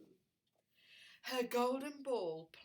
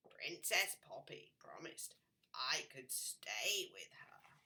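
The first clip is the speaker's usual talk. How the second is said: whispering frog; 5 semitones lower than usual. Acted. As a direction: let the frog whisper his wishes. Frog tells the king.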